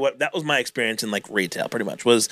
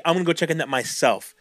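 fake reassurance. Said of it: "As if I'm reassuring her".

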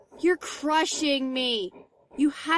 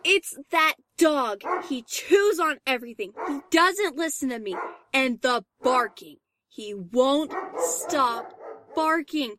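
exasperated venting. Acted. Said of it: "Calm down".

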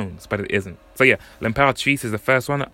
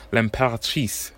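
French accent. Shown as a demonstration. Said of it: "Forgive my awful French accent there".

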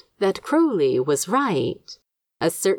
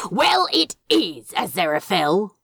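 snapped. Acted. Crowley snapping back at Aziraphale, irritated. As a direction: bite the words off, annoyed. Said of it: "he snapped".

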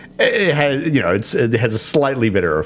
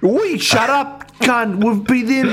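character yell; 10 semitones higher, slower than usual. Acted. Character yells at goblin.

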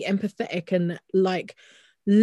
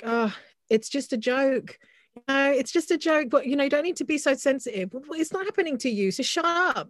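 higher, sneering mock of someone brushing off abuse; mocking dismissive voice; 5 semitones higher than usual. Friend mocks people who dismiss racist abuse, in a sneering higher voice. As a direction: parody a smug dismissal, pitch rising to the end.

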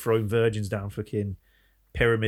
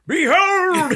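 very high, loud, very slow booming cry; grand prophet proclamation; 10 dB louder than usual. Retold or imitated. Hustler priest to the crowd, booming slow proclamation. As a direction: proclaim like a false prophet at the eclipse.

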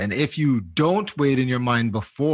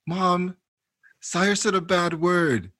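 lightly voiced child, pitched up; tattling little kid; 5 semitones higher, slower than usual. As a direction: tell on your brother, higher and drawn out. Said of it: "Kai will go".

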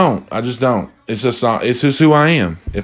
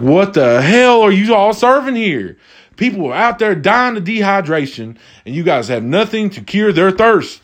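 high-pitched, incredulous complaint; hammed-up indignant rant, pitched up; mock outrage; 8 semitones higher than usual. Diner tells waitress people are dying of thirst, in mock outrage.

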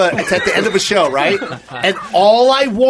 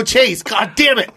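exasperated, drawn-out mild yell; retold yell; 3 semitones higher, slower than usual. Retelling how he yelled at his friend, exasperated. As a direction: stretch out the curse in exasperation. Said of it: "I yelled at him 'cause I got so mad".

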